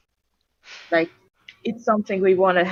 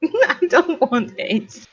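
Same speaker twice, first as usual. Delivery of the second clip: slow, higher mock Rudy voice, drawn out; Rudy Jazz impression; 7 semitones higher, slower than usual. Friend mocks Rudy's plea on stream, slow and higher. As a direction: lightly imitate a friend's plea, slowly. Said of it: "my pitch perfect Rudy Jazz impression".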